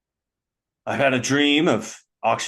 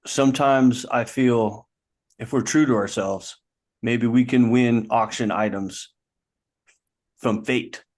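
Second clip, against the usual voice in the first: earnest indie film; slower than usual. Acted. Bidder telling his rival money isn't everything, slow earnest art-house film tone. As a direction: deliver it like a sincere art-house monologue. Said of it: "first time independent film submission".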